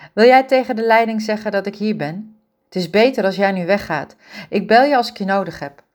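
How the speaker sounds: hoger, snel doorratelend en bezorgd; bezorgde jonge vrouw. Acted. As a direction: een jonge verzorgster die zich zorgen maakt om haar oma. Ingrid spreekt Peter op gang. (bezorgde Ingrid, hoger en luider pratend)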